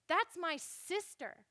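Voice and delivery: slow, emphatic mock indignation; acted outrage, drawn out slowly; furious brother. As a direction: accuse with measured, weighty words. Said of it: "Absalom is furious".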